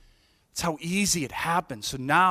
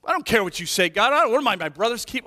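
defiant toward God; 5 semitones higher, 4 dB louder, faster than usual. Retold or imitated. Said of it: "who talks to God like that?".

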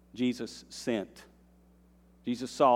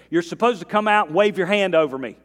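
indignant complaint; 7 semitones higher, 10 dB louder than usual. Retold or imitated. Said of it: "This is what he said".

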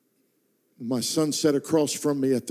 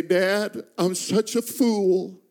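through tears; 4 semitones higher, much slower than usual. Retold or imitated. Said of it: "through tears".

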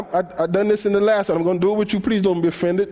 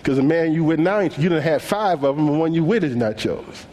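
low knowing Jesus; 4 semitones lower than usual. Pretend. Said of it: "he said".

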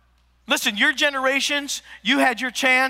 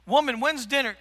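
demanding; 3 semitones higher than usual. Retold or imitated. Acts out demanding dinner from mom.

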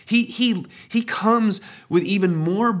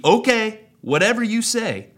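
mock resignation; 8 semitones higher, 4 dB louder than usual. Mock compliant Christian reply.

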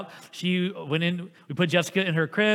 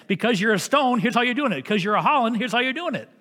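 louder, higher mock parent laying down the law; strict parent; 7 semitones higher, 5 dB louder than usual. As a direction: bark out the family rules like a stern dad. Parents laying down family rules.

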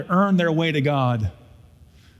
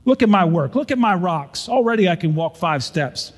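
indignant retort, a bit raised; 4 semitones higher than usual. Acted. Rock stacker snaps back at firstborn, indignant and raised. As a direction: defend the rocks, stung and proud. Brother defends his rock work.

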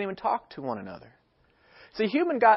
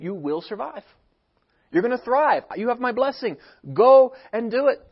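rising promise swelling to a loud push; God's blessing; 4 semitones higher, 4 dB louder than usual. Acted. Preacher voicing God to his people, building to a loud call.

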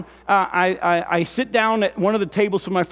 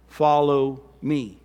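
slow solemn call; 5 semitones lower, much slower than usual. Shown as a demonstration. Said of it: "And then he says it again".

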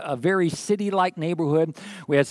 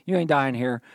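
reassuring repeat; 4 semitones lower than usual. Shown as a demonstration. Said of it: "restating the promise".

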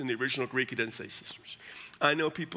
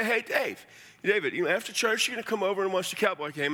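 chatty, higher-pitched friendly ask; casual invitation; 3 semitones higher than usual. Acted. Asking a friend over after church, casual. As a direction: toss off an everyday invite. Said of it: "it's a casual way to speak".

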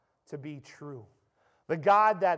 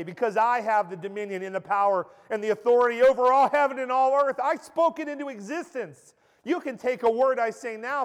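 loud, higher, full preaching force; commanding proclamation; 3 semitones higher, 5 dB louder than usual. Acted. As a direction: speak with kingly authority. Preacher voicing Christ in power.

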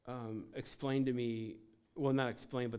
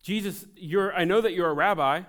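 raised, higher calling voice; loud calling out; 7 semitones higher, 14 dB louder than usual. Acted. Blind man addressing Jesus as rabbi, calling out loudly. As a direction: call out firmly, short of a full yell. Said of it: "this is what the blind man did".

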